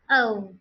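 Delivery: O gliding from open vowel to rounded lips; loud O with a clear glide; two-part O. Shown as a demonstration. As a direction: say O as a falling diphthong. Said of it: "Add the two".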